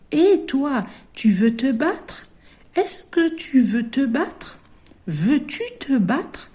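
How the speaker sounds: high, loud challenging ladybug; ladybug picking a fight. Acted. A ladybug daring a classmate to fight, high and challenging. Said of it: "Elle dit".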